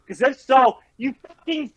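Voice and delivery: high-pitched, contemptuous tirade at a rival player; scornful, enraged insults pitched high; raging trash talk. Real, not acted. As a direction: tear into the gamer with real fury. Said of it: "Cactus is raging".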